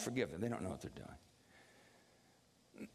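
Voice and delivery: fading to a breathy whisper, slow; dying whisper. Retold or imitated. Jesus on the cross, forgiving his killers in a dying whisper. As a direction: let the words die away on the cross. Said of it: "as he's dying on the cross".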